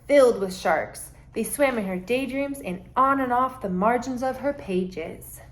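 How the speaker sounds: storybook read-aloud, gentle and lively; reading to children. Acted. Teacher reads a picture book to her class, lively.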